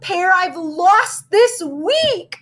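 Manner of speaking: put-on high, slow, tearful girl voice; sniffling. A narrator's reading. Missy sniffling to Rose about her lost mittens. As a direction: whimper it out like she's about to cry. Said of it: "sniffled Missy".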